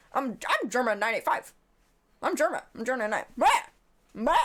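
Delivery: a lightly voiced, deliberately bad Germa; worst Germa impression. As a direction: toss off a half-hearted Germa imitation. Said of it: "my worst Germa impression".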